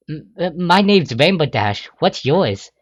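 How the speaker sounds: stammering, awkward introduction; uncomfortable. Acted. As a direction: introduce yourself nervously. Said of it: "she says uncomfortably".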